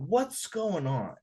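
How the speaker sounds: deliberate, sincere check-in. Retold or imitated. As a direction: ask slowly and earnestly what's wrong. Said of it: "Sincerely, I said".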